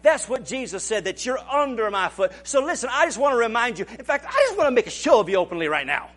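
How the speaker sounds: a preacher taunting the devil, mildly mocking. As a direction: rub it in the devil's face. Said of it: "all we have to do is just remind".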